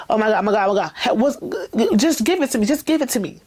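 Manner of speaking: mock-anxious urgency, rising in pitch; anxious anticipation. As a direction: act out an eager, antsy plea. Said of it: "a level of anxiety".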